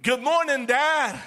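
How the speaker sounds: bright greeting to Father God; cheerful morning greeting. Shown as a demonstration. Son greeting his heavenly Father, cheerful. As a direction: greet Dad gladly. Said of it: "You got to say".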